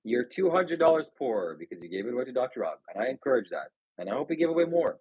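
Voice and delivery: calm preachy reassurance. Acted. Calm reassuring sermon to chat.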